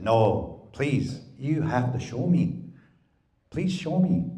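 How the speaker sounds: pleading, rising to a high please; lightly voiced begging, climbing in pitch; begging trickster. Wysaki-chan begs to be shown.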